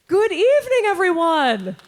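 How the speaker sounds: high, loud bright hello to the hall; projected greeting. Real, not acted. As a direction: greet the whole auditorium. Greeting the concert audience.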